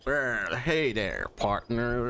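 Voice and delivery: slow drawling cowboy greeting. Retold or imitated. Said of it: "I've been rehearsing Cowboy voices".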